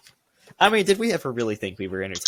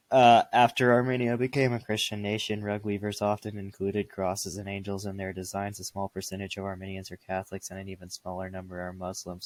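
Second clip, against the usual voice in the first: reading aloud; 5 dB quieter than usual. Shown as a demonstration. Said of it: "narration and dictating voice".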